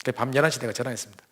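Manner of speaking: ordinary delivery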